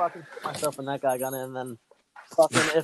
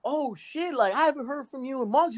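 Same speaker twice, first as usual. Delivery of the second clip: higher, excited mock phone greeting; imitating the passenger; 7 semitones higher than usual. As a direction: act out his surprised hello. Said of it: "he's like".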